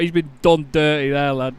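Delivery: broad-leaning Northern English aside; matey Northern English sympathy; Northern English accent. Real, not acted. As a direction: lean into the Northern English vowels. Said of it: "I've brought the Norther out".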